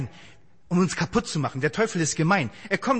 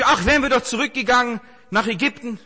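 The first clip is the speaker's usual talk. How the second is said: whining Israelites; 6 semitones higher, 6 dB louder than usual. Retold or imitated. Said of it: "und dann sagen sie".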